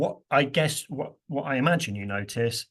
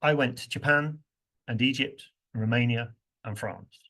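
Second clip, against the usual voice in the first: unstressed words squashed between Japan and Egypt; squeezed rhythm. Shown as a demonstration. Teacher showing learners how fillers get squeezed, quick. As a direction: rush the little words, keep the beat on the places. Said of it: "Now listen what, to what happened".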